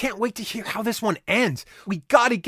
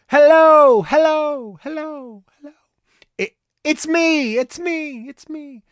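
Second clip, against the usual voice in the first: cave echo; 10 semitones higher, 8 dB louder than usual. Pretend. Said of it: "It makes your voice echo like, like this".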